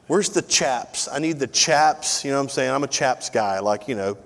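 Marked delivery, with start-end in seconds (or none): 0.1-2.2 slow, pleading mock shopper; drawn-out whine of a bargain hunter; imitating a shopper. Preacher imitates a shopper asking for Chaps, mock whine. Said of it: "You know, some".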